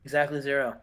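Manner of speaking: a hint of a brooding wrestler cutting a low-key promo; Dean Malenko promo. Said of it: "And Dean's like".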